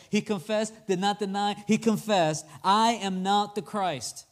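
"confessed" and "I am not the Christ" stressed; deliberate emphasis, slowing on "I am not the Christ"; emphatic reading. Acted. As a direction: drive home each phrase of "He confessed, did not deny". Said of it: "You guys catch that emphasis".

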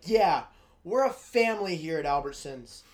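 aggressive. Retold or imitated. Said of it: "why I said that so aggressively".

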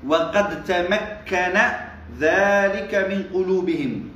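very slow, each word spaced out; slow dictation reading. Shown as a demonstration. Teacher reading the text slowly to his students.

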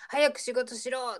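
retold loud order. Manager suddenly ordering the band to work, mildly acted yell. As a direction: imitate a manager loudly ordering staff, slowly. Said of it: "一点大声でモンキーズに、".

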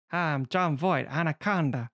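lightly imitated snake-like film villain; Jon Voight. Voight in Anaconda, light snaky impression. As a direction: slide in like a snake. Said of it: "comes at you like a snake".

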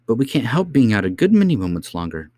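put-on pleading young girl's voice; protesting princess. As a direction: argue back like a little princess. Princess argues with nurse.

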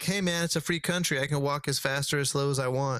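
high, smug imitation of a dawdling pedestrian; mock carefree walker. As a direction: lightly mimic the careless walkers. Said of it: "it's more like".

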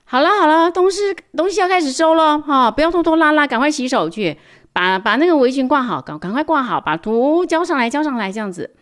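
put-on high, loud, fast teacher telling kids to pack up; bustling teacher. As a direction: hurry the class to tidy up. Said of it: "这个老师就说了：". (老师催学生收东西，又高又响又快)

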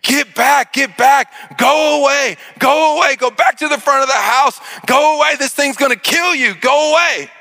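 put-on father screaming at kids to get back, high frantic yell. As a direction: scream them back to the house. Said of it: "I am screaming bloody murder".

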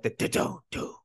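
whispered creepy theme tune; hummed music. Retold or imitated. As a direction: mimic the eerie movie music. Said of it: "m-, music".

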